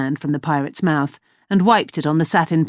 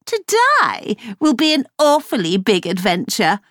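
sneered; 5 semitones higher than usual. Acted.

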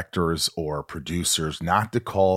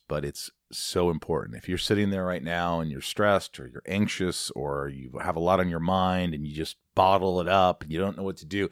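earnest ad read; earnest host reading a sponsor spot. Acted. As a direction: pitch therapy sincerely.

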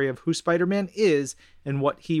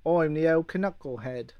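put-on Australian accent; slower than usual. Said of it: "better with an Australian accent".

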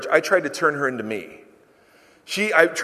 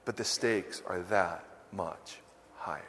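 whispered aside to the congregation; 9 semitones lower, 16 dB quieter than usual. Real, not acted. Pastor whispering the warning to the church. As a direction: drop to a hushed whisper for emphasis.

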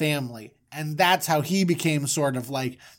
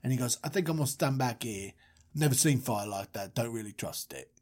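low, soft, unimpressed Moses; sceptical Moses; 4 semitones lower, 6 dB quieter than usual. Acted. Moses refusing to walk into the fire, low and sceptical. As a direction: play a distrustful bloke backing away, voice dropped.

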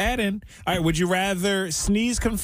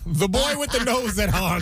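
town crier; 3 semitones higher than usual. Pretend. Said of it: "Or whatever they say in this".

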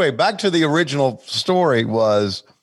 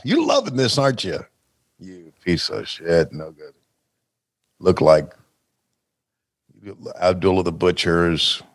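wrestling promo; 5 semitones lower than usual. Retold or imitated. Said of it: "for Ole to cut a promo on me".

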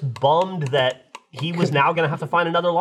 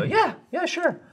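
much higher, airy yeah yeah sure; mock breezy agreement; slower than usual. Telling friends how he agreed to lend Frank the mower, high breezy yes. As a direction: toss off the yes in a high, carefree voice. Retelling his easy reply to Frank.

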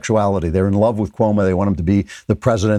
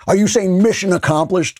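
higher, pushy reporter's gotcha call; imitating a reporter shouting a question at a press conference; mock shouted question; 9 semitones higher than usual. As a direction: fire it off like a reporter trying to catch him out. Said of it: "shouted out".

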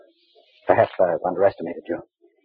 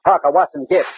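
exasperated boss; 9 semitones higher, 4 dB louder than usual. Acted. Boss scoffs at Henry's theory.

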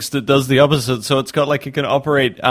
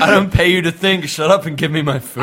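hammed-up angry boss, a bit louder; 3 semitones higher, 4 dB louder than usual. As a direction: bark orders like a bossy customer. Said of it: "It's like".

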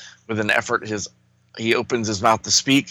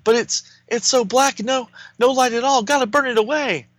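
hero voice; 10 semitones higher than usual. Acted. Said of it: "Superboy's over there".

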